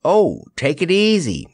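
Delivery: high, easygoing reassurance; relenting advice. A narrator's reading. Jellia advises the paddling lion, relenting a little. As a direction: let up and reassure him. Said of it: "advised Jellia, relenting a little".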